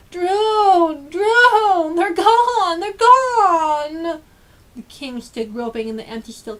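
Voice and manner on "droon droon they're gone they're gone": high, loud despairing cries; mournful shouts. Acted. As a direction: call out in dismay for the lost stilts. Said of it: "the king's mournful shouts".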